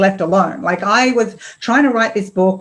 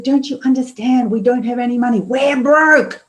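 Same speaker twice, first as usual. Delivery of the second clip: retold anger; 5 semitones higher than usual. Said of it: "like a dragon with steam coming out my ears".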